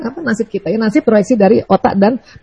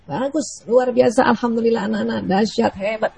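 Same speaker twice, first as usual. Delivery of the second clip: softer, encouraging "Bagus, luar biasa"; warm praise to children; 8 dB quieter than usual. Shown as a demonstration. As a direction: praise the kids gently with a laugh. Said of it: "orang tua".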